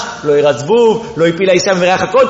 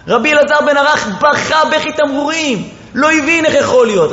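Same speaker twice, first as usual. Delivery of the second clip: higher, pleading preacher's wail; impassioned lament; 6 semitones higher than usual. Acted. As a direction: preach the disbelief with rising grief. Continues the lament. (קינה נרגשת של דרשן, בקול גבוה ומתחנן)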